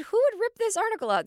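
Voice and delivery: high, squeaky indignant question; outraged disbelief. Retold or imitated. To the waiting room about the torn article, high indignant squeak. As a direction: demand to know who tore it out.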